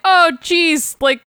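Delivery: a kid complaining he overreacted; the little girl telling the nurse she was only rehearsing; little girl scolding. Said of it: "the little girl's like".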